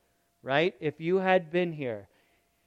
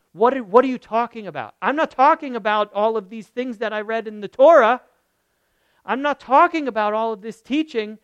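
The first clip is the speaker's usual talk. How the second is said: frustrated outburst; 3 semitones higher, 6 dB louder than usual. Retold or imitated. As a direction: push back hard, fed up with empty words. Voicing Mary's frustration at Jesus.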